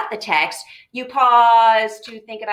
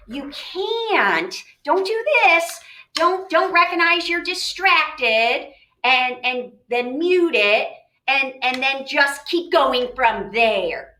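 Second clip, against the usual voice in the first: raised pitch, drawn-out cautioning; insistent teacherly caution; emphatic warning; 4 semitones higher, 4 dB louder, slower than usual. Real, not acted. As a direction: warn them firmly, stretching the words. Warning students against skipping the reread.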